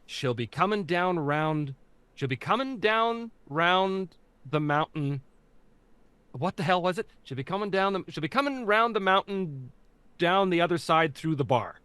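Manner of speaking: light Newfie accent as a drama warm-up. Shown as a demonstration. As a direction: sound out the Newfoundland warm-up line like coaching actors. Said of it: "the phrase that I gave my cast to say in order to get them in the accent".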